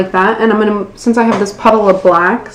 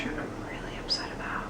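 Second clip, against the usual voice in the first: mock-upset whisper; 22 dB quieter than usual. Mock dismay at the pumpkin.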